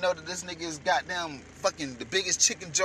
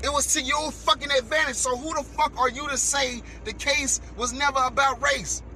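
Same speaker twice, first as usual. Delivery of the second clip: heated, higher rant at the interviewee; angry rant; 6 semitones higher than usual. Real, not acted. Ranting at the pasty interviewee, angry and raised. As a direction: jab the question at him, pitch raised.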